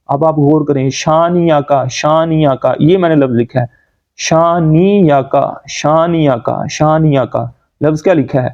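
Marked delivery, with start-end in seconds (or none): 0.9-2.7 "شانیہ کا" glided through with a y; hamza skipped. Shown as a demonstration. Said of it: "حمزہ کی آواز ہم skip کر". 4.1-7.4 "شانیہ کا" glided through with a y; hamza skipped. Shown as a demonstration. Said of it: "حمزہ کی آواز ہم skip کر".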